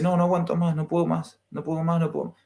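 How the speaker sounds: voz de mujer desesperada, más aguda, apenas insinuada; angustia imitada. Retold or imitated. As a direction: imitando a alguien que ya no aguanta. (mujer desesperada que no aguanta más, imitada de forma leve)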